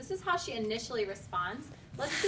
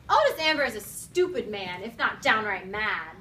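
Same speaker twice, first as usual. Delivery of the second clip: judge's indignation; 7 dB louder than usual. Acted. Reading the judge's angry line.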